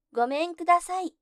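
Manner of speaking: loud, high call at the gate; a tiny man yelling to be heard; shouting. A narrator's reading. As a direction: shout it with every bit of voice. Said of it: "と怒鳴りました".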